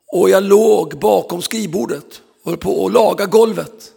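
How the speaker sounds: preaching loud. Acted. Dramatic retelling, preaching.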